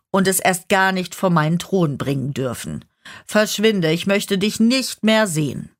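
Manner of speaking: laut, schnell und herrisch belehrend; strenge Standpauke. Acted. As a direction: den Untergebenen abkanzeln und wegschicken. Herrscher kanzelt den Teufel ab. (herrische Strafpredigt)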